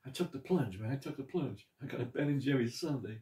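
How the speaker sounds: chewing while talking; eating ice cream; mouth partly full. Real, not acted. Seen 1: spoon at mouth, savoring a bite while speaking.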